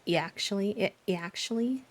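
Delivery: Midwestern "actually" with a yeah-like glide at the start; imitated Midwestern "actually", opening on a y sound; Midwestern accent. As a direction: say "actually" as "yee-ack-shully", Midwestern style. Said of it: "Well, a Midwesterner says".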